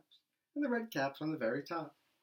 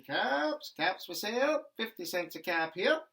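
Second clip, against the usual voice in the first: loud, high peddler's call; calling out wares; 6 semitones higher, 5 dB louder than usual. Acted. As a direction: sing it out to the street like a hawker.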